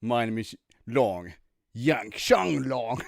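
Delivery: slow, drawn-out suave intro; Bond-style intro. Pretend. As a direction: introduce yourself slowly, like a spy. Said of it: "comes in like".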